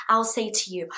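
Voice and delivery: whisper. Shown as a demonstration. Teacher sets up dialogue.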